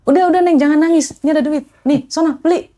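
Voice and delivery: lightly voiced kind bapak consoling a girl; comforting stranger. Kind man soothes crying courier, gently reassuring. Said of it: "kata gitu".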